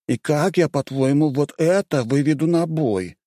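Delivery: high, affected, slow complaint; a fussy man fretting, drawn out; mannered voice. A narrator's reading. Mannered Indian complaining about the drunk fighter.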